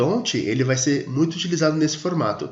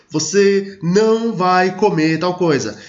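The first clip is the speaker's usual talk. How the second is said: mock-scolding mother, a bit louder and higher; scolding mom; 4 semitones higher, 4 dB louder, slower than usual. Teacher imitating a mom scolding her child. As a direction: play a mother forbidding a treat. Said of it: "Sabe quando a mãe vai briga com você?".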